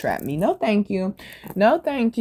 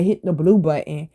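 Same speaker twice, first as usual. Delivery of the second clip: retold offhand instruction, neither nice nor nasty; neutral, matter-of-fact; 3 semitones lower than usual. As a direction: toss out a plain instruction in passing. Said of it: "I said it just like that".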